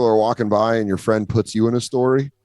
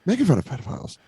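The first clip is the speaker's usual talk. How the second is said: frantic explanation; 9 semitones higher, 4 dB quieter, faster than usual. Retold or imitated. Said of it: "And I was like".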